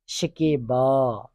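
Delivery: شکیبا drawn out syllable by syllable; slow dictation. Shown as a demonstration. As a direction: stretch شکیبا out for students to copy. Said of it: "teacher dictating word".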